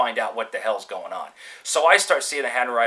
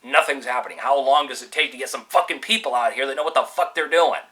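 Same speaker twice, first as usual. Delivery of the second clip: exasperated griping, moderately heated; mildly angry retold complaint; retold pissed-off rant; 3 dB louder than usual. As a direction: act out fed-up impatience, punching some words. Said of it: "I'm getting pissed off".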